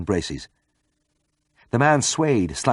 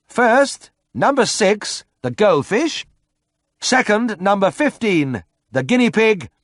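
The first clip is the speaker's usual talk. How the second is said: announcing winners; 11 semitones higher, 4 dB louder, slower than usual. A narrator's reading. Vet announces prize winners.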